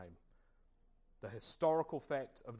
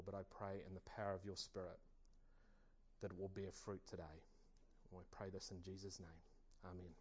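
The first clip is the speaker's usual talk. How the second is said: prayer. Acted. Leads a prayer.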